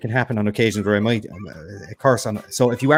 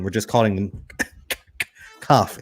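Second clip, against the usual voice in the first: fake cough; 3 semitones lower than usual. Shown as a demonstration. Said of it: "It's a fake cough".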